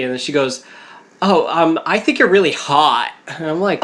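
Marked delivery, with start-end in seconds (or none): 1.2-3.1 lightly imitated Valley Girl; giddy Valley Girl caller, mildly mocked; Valley Girl accent. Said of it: "it's like that Valley Girl accent too".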